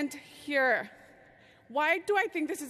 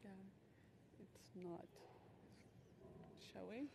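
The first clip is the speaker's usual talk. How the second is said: off mic; 3 semitones lower, 25 dB quieter than usual. Real, not acted. Slides not showing, off mic.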